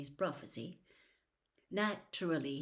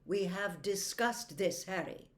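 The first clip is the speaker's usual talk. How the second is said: stern. Acted. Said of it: "now he sounded stern again".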